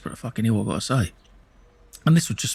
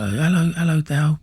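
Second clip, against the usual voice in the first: higher, sing-song fake welcome; mock Faye voice; 7 semitones higher than usual. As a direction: greet him like an overly sweet host. Faye greeting him, voiced.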